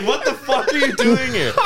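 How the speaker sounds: high laughing imitation of the dad's outburst; mock angry dad. Dad at the front door confronting the stranger, mock anger. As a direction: play the shouting dad while laughing. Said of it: "he was like".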